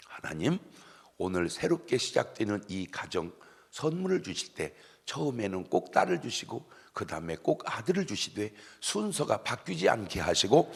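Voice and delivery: low, measured prayer voice; wedding prayer. Retold or imitated. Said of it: "줄에 설 때마다 기도를 해줘요". (주례 기도하듯 낮고 차분하게)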